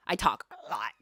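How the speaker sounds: unvoiced conspiratorial whisper; a mock secret whisper. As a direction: whisper it like a confession. Whispered aside in retold quote.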